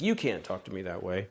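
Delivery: flat, pushy you can't; the weak accusing version, stress you; blunt you-statement. Shown as a demonstration. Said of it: "as opposed to, like".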